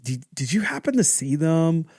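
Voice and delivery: halting, tentative retold question; struggling hesitation. Child asking dad about missing medals, hesitant. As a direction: stall and restart, easing into the question. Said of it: "I'm struggling to get this out".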